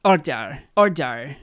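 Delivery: 'Order' repeated in imitation of her pronunciation; mock-accented 'Order'; mimicking her 'order'. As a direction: copy the shop owner's 'Order', word by word. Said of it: "makes fun of the way she says order".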